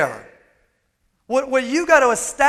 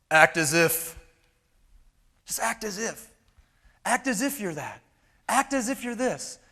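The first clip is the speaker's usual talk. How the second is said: softer, lower, repeated like a slogan; mock mantra; 3 semitones lower, 8 dB quieter than usual. Mocking the MLM lie, soft mantra-like repetition. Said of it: "a great M L M lie".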